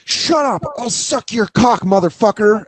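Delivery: high mock kid snapping back; foul-mouthed kid. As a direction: play the bratty kid cursing, pitched high. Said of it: "And he goes".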